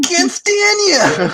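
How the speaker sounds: slow, high, hammed-up repeat; catchphrase. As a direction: stretch the catchphrase out for laughs.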